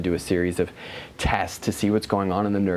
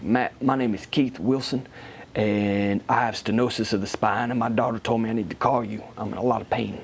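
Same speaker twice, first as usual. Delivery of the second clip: put-on deep Southern accent. New client phoning for help, imitated Southern accent. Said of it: "he had the deep, deep Southern accent".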